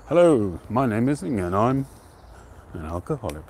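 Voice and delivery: a bit of playful self-mockery, like the first share at a meeting; mock AA introduction. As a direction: ham up a support-group greeting, then deadpan the last words. Mock Alcoholics Anonymous introduction.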